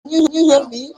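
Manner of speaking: distant voice from the next room; calling out from another room. Real, not acted. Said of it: "You are calling from the other room".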